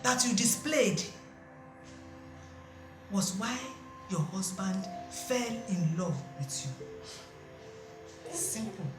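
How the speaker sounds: soft, slow, reassuring explanation; gentle counsel. Acted. Auntie calmly comforting the worried wife, soft and slow. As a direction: soothe her like a wise elder.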